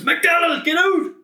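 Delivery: loud, high mock teacher yell; shouting teacher. Science teacher ejecting McDonald, mock angry shout. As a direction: throw the pupil out at full volume. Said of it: "his favourite thing to say was".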